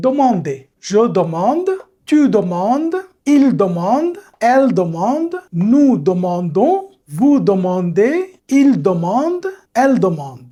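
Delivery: teacher leading a group recitation; repeat-after-me drill. Shown as a demonstration. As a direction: lead the class through the forms. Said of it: "আপনারা একবার repeat করেন".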